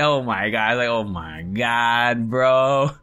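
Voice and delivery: slow, drawn-out disbelief; exasperated dismay. Retold or imitated. Host struggling with the script, drawn-out dismay. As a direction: drag it out in dismay.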